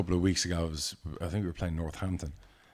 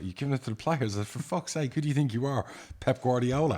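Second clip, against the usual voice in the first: much higher, disbelieving you've given it to the players; incredulous mockery; 6 semitones higher than usual. Chairman mocking his perfectionist manager, incredulous and high. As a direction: scoff at him in rising disbelief.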